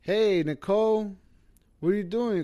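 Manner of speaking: calling mom. Retold or imitated. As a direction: call her back to bed like a worried mother. Mom calling sleepwalking niece.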